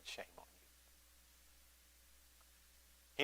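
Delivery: soft, mock-tender scolding; gently scold, tongue in cheek; mock loving. Pastor mock-lovingly scolds a Christian who never handed out tracts, softly. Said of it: "but I, very lovingly".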